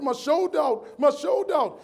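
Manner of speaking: high, urgent cry of pain; panicked cry. Retold or imitated. Speaker on stage crying out to client, high and urgent. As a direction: plead as the shoulder pops out.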